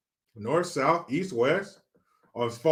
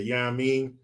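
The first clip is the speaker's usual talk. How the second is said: lightly put-on New York slang voice; a hint of a New York accent, stretched out; imitating New York dudes; slower than usual. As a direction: mimic a New York buddy's catchphrase. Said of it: "they'd always say".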